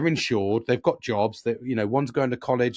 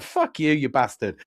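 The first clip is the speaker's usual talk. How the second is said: jealous mate; 3 dB louder, slower than usual. Retold or imitated. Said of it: "he's jealous".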